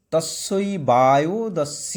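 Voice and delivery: তস্যই বায়ুদস্য said slowly, syllable by syllable; broken-up pronunciation. Shown as a demonstration. Teacher reciting তস্যই বায়ুদস্য in parts for the class. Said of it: "ভেঙে দিয়েছি".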